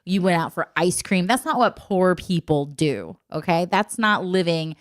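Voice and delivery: emphatic parental lecture, mildly heated; going off on child. Retold or imitated. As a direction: lecture a child with slow, weighted key words. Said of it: "went off on Anna".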